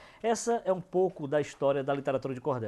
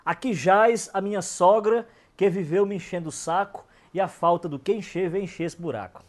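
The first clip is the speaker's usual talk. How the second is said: verse recital; 2 semitones higher, 3 dB louder than usual. Acted. Reciting a mother-in-law epitaph to the audience, declaimed. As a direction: declaim the epitaph like a folk poet.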